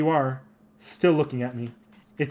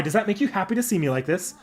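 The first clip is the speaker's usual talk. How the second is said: hammed-up fake sobbing, pitched up; mock crying; 3 semitones higher than usual. Saber fakes tears at the distracted Master, hammy wail. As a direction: wail it like a sulking diva.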